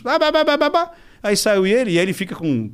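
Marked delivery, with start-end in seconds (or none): 0.0-0.9 high blah blah imitation; mock babbling rant. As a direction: parody his nonstop talking. Mimics Arthur's babble. (imitando falatório agudo)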